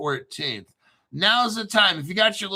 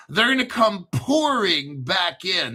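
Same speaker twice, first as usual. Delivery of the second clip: English accent. Shown as a demonstration. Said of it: "That's my English accent".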